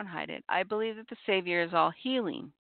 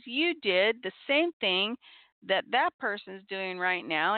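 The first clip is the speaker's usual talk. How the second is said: retold parental scolding; 3 semitones higher than usual. Parent to child who yelled at a sibling, retold scolding. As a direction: re-enact firmly putting a child in their place.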